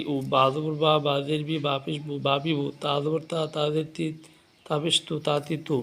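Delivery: sing-song teacher drilling each syllable; steady rhythmic Qur'an primer recitation for beginners. Shown as a demonstration. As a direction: chant the letters like a classroom lesson. Teacher chants letter-vowel drill.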